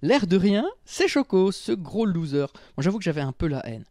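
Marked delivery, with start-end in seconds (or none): 0.0-2.5 lifted, teasing storyteller's reveal; story narration. A narrator's reading. Narrator reveals Choco's return to his listeners, lively narration. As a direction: announce the friend's return, higher-pitched.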